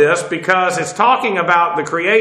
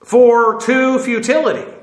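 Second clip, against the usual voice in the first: "For to futility" slow and higher, set apart; emphasis on FUTILITY; 5 semitones higher, slower than usual. Shown as a demonstration. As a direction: stress the fronted phrase "For to futility", drawn out. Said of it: "he's emphasizing it".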